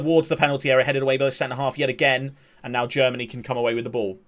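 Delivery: steady match commentary; live play-by-play. Acted. Streamer calling the England attack live, play-by-play. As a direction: describe the physical battle as it unfolds.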